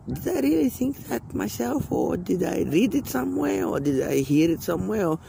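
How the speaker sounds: voicing his own thoughts to himself; musing inner voice. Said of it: "And I think to myself".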